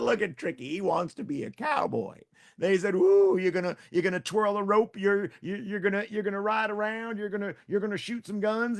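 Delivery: high, loud teasing singsong; mock him like a crowd of kids; mocking friends.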